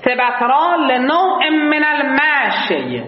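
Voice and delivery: slow, drawn-out recitation of سبترا لنوع من المشی; recited text. Shown as a demonstration. Teacher reads the Arabic text slowly to the class. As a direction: chant the Arabic line slowly. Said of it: "reads the verse text".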